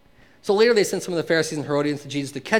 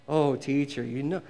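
lightly sarcastic imitation of flatterers; butter up the teacher, insincerely; mock flattery; 4 semitones lower than usual. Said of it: "they talk like this".

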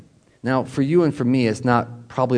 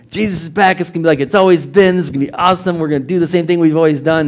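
excited disciples; 4 semitones higher, 4 dB louder, faster than usual. Retold or imitated. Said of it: "maybe they were thinking".

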